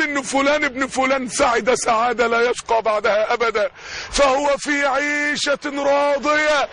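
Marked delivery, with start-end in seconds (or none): 4.1-6.7 slow, measured Quran recitation. Acted. Preacher reciting the verse to the crowd, slow and solemn. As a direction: draw out the verse with reverence.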